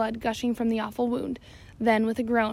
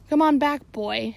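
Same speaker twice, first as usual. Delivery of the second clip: shout; 2 semitones higher, 5 dB louder, slower than usual. Acted. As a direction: shout the dare up at him. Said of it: "shouted Stash".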